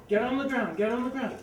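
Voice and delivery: loud barked command, get on the ground; yelling gunman. Retold or imitated. Gunman yelling at a suspect in the lot, loud commands. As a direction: shout it like a man holding a gun.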